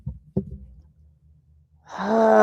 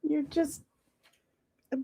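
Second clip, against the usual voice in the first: playful tease; 7 semitones higher than usual. Real, not acted. Teasing friend playfully.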